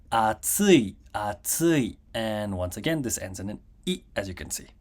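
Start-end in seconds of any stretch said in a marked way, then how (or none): 0.1-2.0 "atsui" rising to tsu, then falling; "atsui" with a drop after tsu; accent on tsu. Shown as a demonstration. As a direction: put the pitch peak on "tsu" in "atsui". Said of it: "we have the accent over here".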